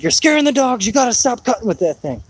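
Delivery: a hint of a nagging wife; imitating wife. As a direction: mimic the wife scolding him to stop mowing. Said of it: "My wife's like".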